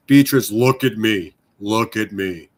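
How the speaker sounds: lightly put-on drag queen voice, slow and deliberate; a hint of a commanding drag queen, drawn out. Owner ordering his cat to look at him, light drag queen voice. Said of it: "drag queen voice whenever I tell her".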